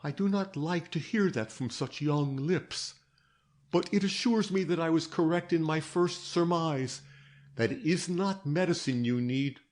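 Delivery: mildly gentle fatherly reassurance; a light touch of a kind old doctor. Acted. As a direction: ease her gently toward trust. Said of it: "he answered gently".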